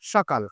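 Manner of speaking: সকাল said as 'shokal'; palatal sh pronunciation. Shown as a demonstration. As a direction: model the sh at the start of সকাল. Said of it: "উচ্চারণ করব হচ্ছে".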